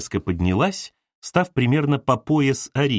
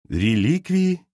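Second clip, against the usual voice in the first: Arina echoes the word «Реликвии?», pitched up as a question; puzzled question; 6 semitones higher, much slower than usual. Acted. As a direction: repeat «Реликвии?» in disbelief. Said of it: "переспросила Арина". (недоумённо переспрашивая «Реликвии?» с подъёмом)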